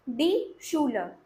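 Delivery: "डी शूलर" slowly, श at the start of "शूलर"; model pronunciation. Shown as a demonstration. Teacher shows the एससीएच sound, slow model pronunciation. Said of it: "तो इसको शूलर पढ़ेंगे।".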